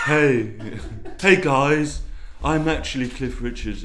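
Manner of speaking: light impression of a pop singer. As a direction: greet the crowd as a cheesy pop star. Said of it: "Good impression of Cliff Richard".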